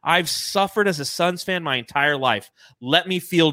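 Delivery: a hint of Tommy Lee Jones staring him down; mock Tommy Lee Jones. Podcaster quotes Tommy Lee Jones to the trolls, lightly voiced. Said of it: "Tommy Lee Jones is looking at him saying".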